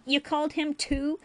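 high, rising disbelief; incredulous. A narrator's reading. Fuming Ferengi boy questions the doctor, incredulous. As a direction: pitch it way up in disbelief. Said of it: "he asked incredulously".

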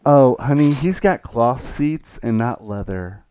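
slow, prissy complaint about the seats; snooty rich lady. Retold or imitated. Driver mocking his rich passenger, slow and prissy. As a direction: drag it out like a spoiled rich wife. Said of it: "then she's like".

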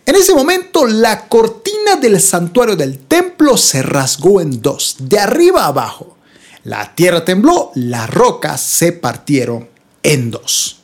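slow, deliberate Bible reading with weighty pauses; dramatic Scripture reading. Acted. Preacher reading Matthew's torn temple curtain to listeners, solemn dramatic reading. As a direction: read it out as an epic moment.

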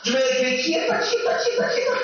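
high-pitched imitation of a passive woman; mock helplessness. Preacher imitates the chica's answer, mock helplessness. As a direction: climb high on the repeated excuse.

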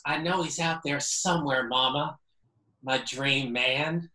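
put-on rough Southern accent, dreamy. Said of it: "in this Southern accent that I'm gonna do horribly probably".

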